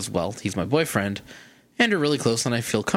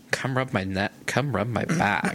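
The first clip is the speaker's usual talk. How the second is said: Valley Gay voice; slower than usual. Retold or imitated. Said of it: "Are you doing gay or Valley Girl".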